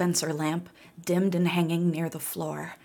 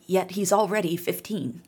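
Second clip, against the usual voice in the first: put-on tired old voice. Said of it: "wheezed the old woman".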